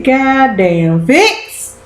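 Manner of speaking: shocked exclamation. Retold or imitated. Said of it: "I said".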